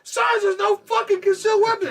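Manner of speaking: very high, loud outburst; hammed-up furious shout; indignant yelling. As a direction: re-enact an outraged telling-off. Retold yelling, interrupted then resumed.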